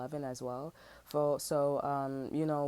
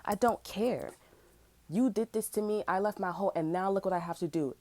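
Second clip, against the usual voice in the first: retold angry rant; 2 semitones higher, 3 dB louder than usual. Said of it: "I'm like".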